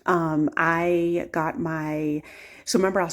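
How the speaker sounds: half-numb mouth after the dentist. Real, not acted. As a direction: talk with one side of the mouth numb. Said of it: "my talking sounds, like, kinda crazy".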